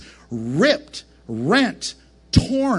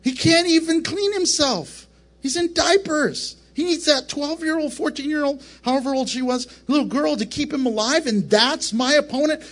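Satan scoffing, voice pitched higher; mocking Satan; 5 semitones higher than usual. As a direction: sneer at the baby Messiah in a lightly raised voice. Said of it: "Satan's probably going".

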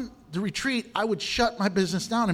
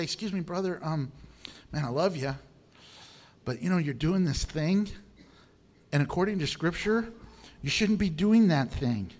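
gentle rebuke. Shown as a demonstration. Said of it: "You can come up and say".

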